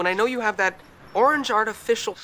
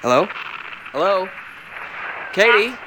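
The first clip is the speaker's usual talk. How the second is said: calling out; 3 dB louder than usual. Acted. Calling down a bad line.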